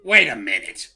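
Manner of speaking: high, loud, slow hammed-up complaint; mock outrage. Player protesting an inkless pen to teammates, hammed-up loud outrage. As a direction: play up indignation over something trivial.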